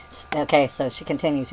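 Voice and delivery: usual speaking voice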